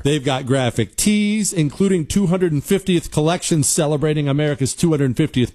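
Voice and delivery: scripted radio sponsor read; punchy, continuous sales pitch. Acted. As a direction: sell it like a host-read radio ad. Reads a sponsor ad.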